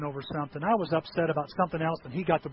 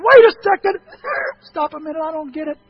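mock astonishment; 9 semitones higher, 13 dB louder than usual. Preacher interrupting himself in mock disbelief.

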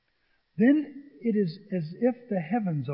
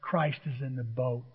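firm quiet declaration; 7 semitones lower, 6 dB quieter than usual. Shown as a demonstration. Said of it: "look at him right in the eyes and say".

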